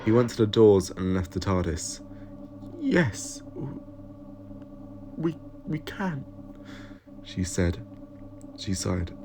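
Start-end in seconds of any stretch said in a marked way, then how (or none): 2.8-6.2 tearful stammer. Acted. Evelyn tearful over leaving.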